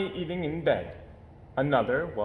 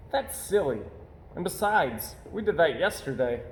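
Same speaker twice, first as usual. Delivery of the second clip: cub voice; 4 semitones higher than usual. Acted. Cub Brother voiced in story.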